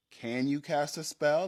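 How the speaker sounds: questioning game master, mildly pointed; mild challenge. Retold or imitated. Game master testing her niece's request, mild challenge. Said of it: "And I was like".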